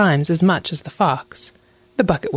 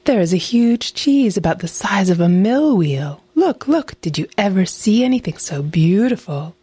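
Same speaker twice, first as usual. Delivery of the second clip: higher-pitched, marvelling fox; excited, lilting storybook exclamation; excited cry; 4 semitones higher than usual. A narrator's reading. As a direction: urge the wolf to come and look. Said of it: "cried she to the wolf".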